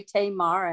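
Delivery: "Tamar" as TAY-mar, with an American final r; Virginian pronunciation. Shown as a demonstration. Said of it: "a Virginian".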